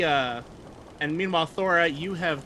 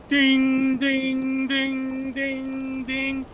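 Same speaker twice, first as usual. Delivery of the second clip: high ringing dings, each one fading; imitating a ship's bell; 10 semitones higher, 5 dB louder, much slower than usual. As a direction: chime it out high like a bell being struck. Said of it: "and he rings the bell".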